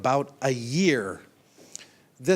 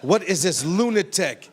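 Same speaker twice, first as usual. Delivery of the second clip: laughing quote; 5 semitones higher, 5 dB louder than usual. Retold or imitated. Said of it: "The women are thinking".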